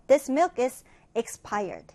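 very slow, clear reading of the English sentence; slow, careful classroom read-aloud; slow model reading. Shown as a demonstration. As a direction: read it slowly for learners to follow. Teacher reads model sentence.

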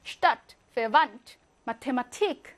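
슈타트, 페반트, 마테마티크 with one plain t; simple t. Shown as a demonstration. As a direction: sound th in 마테마티크 as t. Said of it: "요렇게 발음합니다".

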